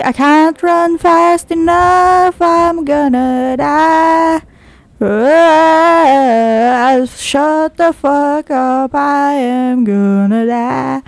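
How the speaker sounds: slow drawn-out frightened wail; panicked whining. Real, not acted. Fleeing the monster, wailing slowly in panic. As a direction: wail it in despair.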